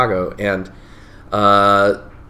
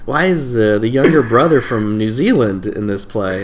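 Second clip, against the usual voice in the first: mock bafflement; 3 semitones higher, 3 dB louder than usual. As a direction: imitate a puzzled, critical audience member. Quoting a baffled student audience.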